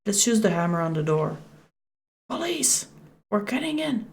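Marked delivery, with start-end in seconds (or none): 2.3-4.1 high-pitched pretend police announcement; mock police call. Player pretending to break in the shed door, high mock police call.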